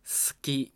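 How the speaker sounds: 好き said with the vowels between s-s-k devoiced, so Sasaki collapses toward suki; over-devoiced Sasaki. Shown as a demonstration. Teacher shows how a mumbling speaker over-devoices Sasaki into 好き. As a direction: whisper away the vowels of ささき until it sounds like 好き. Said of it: "間の母音を無声化してしまって".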